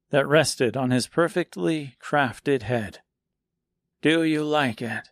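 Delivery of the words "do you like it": gentle old seamstress, lightly voiced; soft elderly voice. A hint of old seamstress asking the scarecrow softly. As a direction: ask softly like a kind old woman. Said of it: "came a soft, elderly voice".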